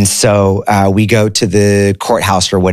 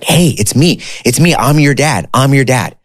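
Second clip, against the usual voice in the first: higher, eager retold dad on the phone; a father overjoyed to finally reach his son; thrilled dad; 7 semitones higher than usual.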